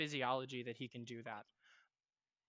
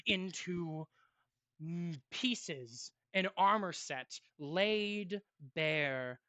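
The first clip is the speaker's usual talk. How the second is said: measured, dramatic narration with long pauses; game master's scene setting; slower than usual. Acted. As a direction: narrate a fallen warrior's death solemnly, letting phrases hang.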